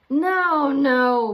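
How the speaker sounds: loud, high annoyed no; growled. A narrator's reading. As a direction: cut him off sharply. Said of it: "Boris growled".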